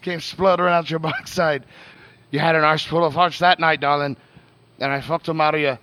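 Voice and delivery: James Joyce's letter in a put-on accent; Southern-style accent. Reading Joyce's letter to Nora, put-on Southern-style accent. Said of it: "you can just do the Southern".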